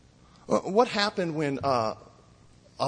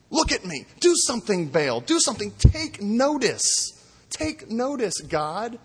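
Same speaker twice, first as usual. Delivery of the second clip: mocking cry to Baal, higher and louder; mock pleading yell; 5 semitones higher, 4 dB louder than usual. Elijah mocking the prophets of Baal, mock-desperate shouting. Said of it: "And Elijah's mocking them".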